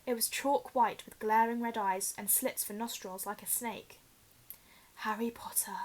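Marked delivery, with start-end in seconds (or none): 5.1-5.8 breathless whisper, softer; whispered from the back of the head. Acted. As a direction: barely breathe his name. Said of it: "it whispered".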